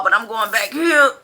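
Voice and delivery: words breaking into laughter; laughing. Real, not acted. Telling Hardee's crew she's leaving, laughing through it.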